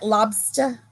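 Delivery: put-on tentative up-north accent; imitated northern accent. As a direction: try out a Maine accent as a question. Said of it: "Is that how they say it?".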